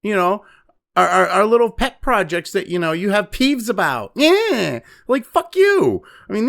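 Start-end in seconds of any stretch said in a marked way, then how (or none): 0.0-4.1 higher, indignant mock whine; mocking indignant states. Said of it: "And they're like". 4.2-6.0 higher, sharp angry "fuck you"; angry retort. Real, not acted. Ranting against sanctuary states.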